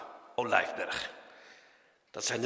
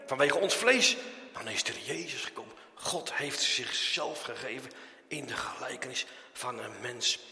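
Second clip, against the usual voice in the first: ordinary delivery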